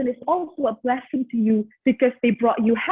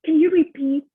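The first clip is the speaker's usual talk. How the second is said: mocking the friend; 4 semitones higher, 4 dB louder than usual. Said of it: "I can still picture her face when she said".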